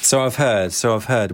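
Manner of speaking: lightly voiced wheezy crone; a touch of old-woman wheeze; wheezing old woman. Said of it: "wheezed the old woman".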